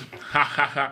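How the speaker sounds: hammed-up coarse guffaw; a deliberately greasy laugh after a heavy joke; exaggerated rire gras; fat mock laugh. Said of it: "J'avais écrit rire gras".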